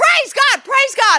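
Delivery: acted, very high, piercing, high-pitched screaming cry. Retelling the night a pastor called with news, retelling own screaming. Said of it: "I start screaming".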